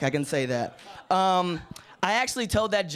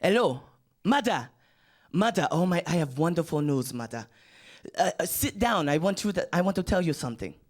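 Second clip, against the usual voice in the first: lightly put-on accent on the phone to mother; a hint of a proud son calling home; mock African accent. Friend phoning his mother with big news, in a light put-on accent. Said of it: "phone call kinda went something like this".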